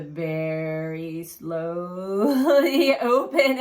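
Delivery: very slow, elongated emphasis; drawn-out slow motion. Retold or imitated. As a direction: stretch the words like slowly opening doors. Stretches words to show slow doors.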